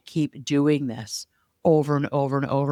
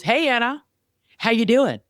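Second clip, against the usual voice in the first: bright, much higher, louder cheery greeting; chipper neighbor; 9 semitones higher, 4 dB louder than usual. Retold or imitated. Neighbor greeting Anna mid-race from his bike, chipper and much higher. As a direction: play the overly cheerful neighbor calling out hello. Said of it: "like, all chipper and happy".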